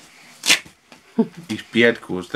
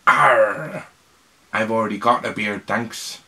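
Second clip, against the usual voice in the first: pirate voice; 4 dB louder than usual. Acted. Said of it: "said the pirate".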